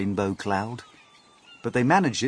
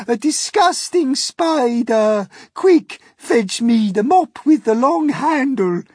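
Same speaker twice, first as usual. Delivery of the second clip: high, louder commanding yell; disgusted shout; 10 dB louder, slower than usual. Retold or imitated. Miss Spider imitating Aunt Sponge demanding the mop. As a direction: bark for the mop in revulsion. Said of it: "she cried".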